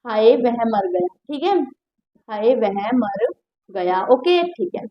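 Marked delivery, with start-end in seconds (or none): 0.0-1.1 a lightly acted sorrowful sigh; mock lament. Shown as a demonstration. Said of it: "मैं लिख देती हूँ". 2.3-4.0 slow, soft, lower sigh of grief; a lightly acted sorrowful sigh; mock lament. Shown as a demonstration. Teacher acting grief over a death, soft and slow. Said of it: "मैं लिख देती हूँ".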